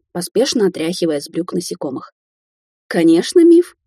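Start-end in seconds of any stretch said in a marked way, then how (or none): 2.9-3.8 laughing, high and loud; old woman cackling with laughter; burst out laughing. Acted. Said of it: "расхохоталась Кварц".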